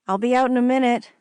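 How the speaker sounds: called out through a door, quick; calling out. Acted. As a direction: call it out to someone outside.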